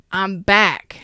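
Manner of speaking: breathy secret whisper; hushed teasing whisper; whispered i'm back. Pretend. Voicing Libras declaring return.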